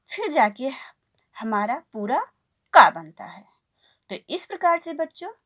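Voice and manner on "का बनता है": whispered reveal of the result. Shown as a demonstration. Teacher whispering the answer to children. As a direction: drop to a whisper to finish the sound.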